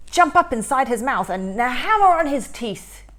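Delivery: rally your brother to attack; eager shout. Acted. Baktus urging Karius to attack the teeth, shout. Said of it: "shouted Baktus".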